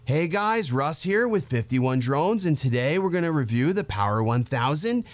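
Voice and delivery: lightly voiced stoner reviewer. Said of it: "make him sound like a stoner".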